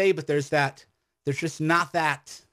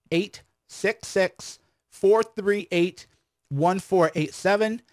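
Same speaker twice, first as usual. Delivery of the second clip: digits drawn out one by one; phone number repeated slowly; 4 semitones higher, slower than usual. Shown as a demonstration. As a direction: give the number again, slowly and clearly. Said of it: "I'll give you the number again".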